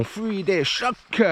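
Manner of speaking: slowed, self-mocking English accent from a French speaker; a French runner's bad English accent; English words in a lousy French-speaker's English accent. Shown as a demonstration. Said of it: "avec mon accent anglais pourri".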